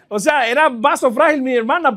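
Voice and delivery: said through a laugh; chuckling while telling. Real, not acted. Laughing at childhood memory.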